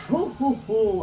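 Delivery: lightly voiced jolly ho ho ho; a hint of Santa chuckling; Santa Claus laugh. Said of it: "Tawa ni Santa Claus".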